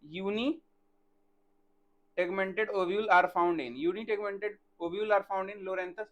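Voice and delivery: slow, word by word dictation for notes; teacher dictating a definition, slow and even. Shown as a demonstration. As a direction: spell it out slowly so students can write.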